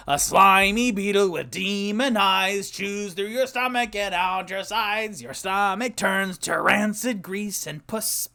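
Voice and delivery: slow eerie reading of a creepy song; spooky recital. Pretend. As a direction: recite it like a campfire horror rhyme. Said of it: "they are frightening".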